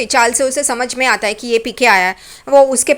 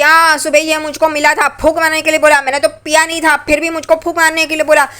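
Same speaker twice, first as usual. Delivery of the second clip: put-on drunken rant; 4 semitones higher than usual. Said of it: "Ramayan Mahabharat शुरू होती है पागल की तरह".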